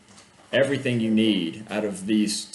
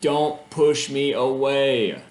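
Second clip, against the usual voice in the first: Rose pleading; 3 semitones higher, 5 dB louder, much slower than usual. Acted. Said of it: "Rose says".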